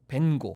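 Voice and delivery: 벤고 said slowly, the English way; English pronunciation. Shown as a demonstration. Art lecturer shows the English version of the name, 벤고 said slowly. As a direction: say 벤고 as English speakers do, ending on a plain "go". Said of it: "영어로는".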